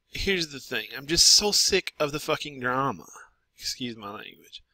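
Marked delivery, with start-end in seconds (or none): 3.6-4.6 a hushed, sheepish aside; whispered aside. Real, not acted. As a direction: whisper the apology quickly under your breath. Quick aside after swearing.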